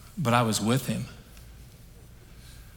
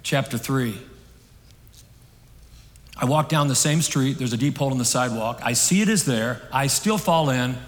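measured chapter-by-chapter reading, easing off; recited reading; 4 dB louder than usual. Acted. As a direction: read it out in short declarative lines. Reads a closing illustration aloud.

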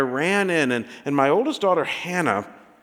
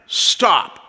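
slow, firm command; fatherly authority; 4 dB louder, much slower than usual. Retold or imitated. Dad to his upset three-year-old, firm authority. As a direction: halt her with a measured, authoritative order. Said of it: "I asserted a little bit of authority".

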